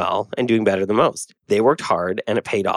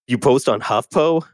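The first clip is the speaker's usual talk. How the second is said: a hint of a frat bro sneer. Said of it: "That's like my brotastic bro voice".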